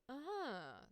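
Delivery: drawn-out "uh", swooping high then falling; one long sighed sorceress "uh". Shown as a demonstration. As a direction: give a quick taste of the sorceress. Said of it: "style of voice".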